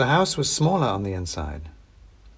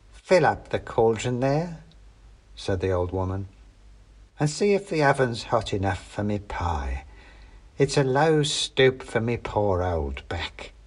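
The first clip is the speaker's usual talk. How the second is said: a hint of a sly old hag asking for help; old witch.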